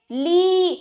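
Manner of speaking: "ली" with a long, held ee; long ee sound. Shown as a demonstration. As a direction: stretch the vowel in "ली" for learners. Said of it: "ला पे ई का उच्चारण करना है". ("ली" में ई को लंबा खींचकर)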